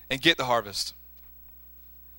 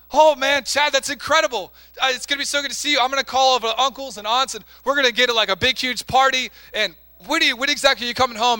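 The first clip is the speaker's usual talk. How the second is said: excited mother; 5 semitones higher, 4 dB louder than usual. Retold or imitated. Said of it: "Chad says".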